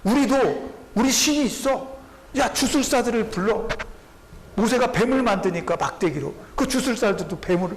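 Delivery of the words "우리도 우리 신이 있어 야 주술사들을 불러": higher, brash scoffing king; mock arrogant retort; defiant Pharaoh. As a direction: taunt Moses like a haughty Pharaoh. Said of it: "그러면서 거침없이 말합니다".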